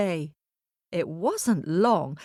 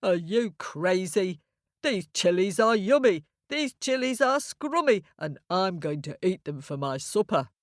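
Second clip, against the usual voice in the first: lightly voiced cheeky ram. Ram refuses to leave the boy's chilies, lightly mocking. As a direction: play a scoffing ram, lightly.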